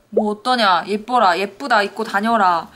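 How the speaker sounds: a hint of a proud indulgent father; doting dad. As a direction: cheer your daughter on, carefree. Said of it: "하고 싶은 대로 해라 하는 그런 성격의".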